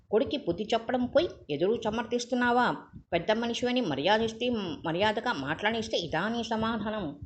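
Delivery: angry rebuttal. Acted. Raghu counters the father.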